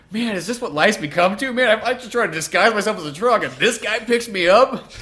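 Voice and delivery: weary robot. Retold or imitated. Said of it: "Optimus Prime's just getting to the point, like".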